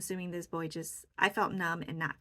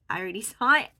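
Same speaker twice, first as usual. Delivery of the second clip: laughing; 2 semitones higher, 12 dB louder, faster than usual. Real, not acted. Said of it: "I was like".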